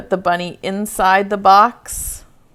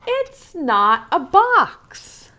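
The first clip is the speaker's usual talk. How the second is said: mild yell; 7 semitones higher, 3 dB louder, much slower than usual. A narrator's reading. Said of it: "the bunny yells".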